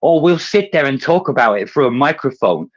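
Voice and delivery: high, loud sneering mock voice; mocking the Russians. Mimicking the Russians at the UN with high, loud sarcasm. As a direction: sneer it out like a smug diplomat. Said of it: "I'm tired of seeing them go".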